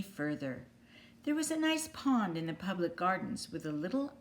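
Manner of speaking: clear, lively storybook narration; reading to children. A narrator's reading. Teacher reading a picture book to young kids, storybook voice. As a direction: read it out like bedtime story time.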